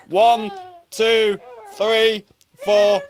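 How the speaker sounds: high, bright coach count; upbeat counting. Shown as a demonstration. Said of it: "stretch up for seven seconds".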